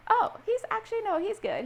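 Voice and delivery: put-on high-pitched girlfriend phone chat; acted breezy reassurance. Acted phone chat with best friend.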